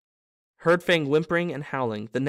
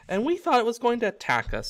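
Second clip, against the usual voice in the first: much higher, amused relief; relieved; 9 semitones higher than usual. Acted. Ron to Harry, patting the car, relieved. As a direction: laugh off the scare.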